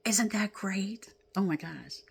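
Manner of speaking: breathless whispered delight; hushed thrill; excited whisper. Real, not acted. Excited aside about the card.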